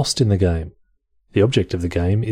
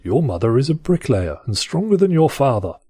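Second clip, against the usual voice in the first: put-on posh English accent; 5 semitones higher than usual. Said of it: "I'm gonna read it in a posh accent".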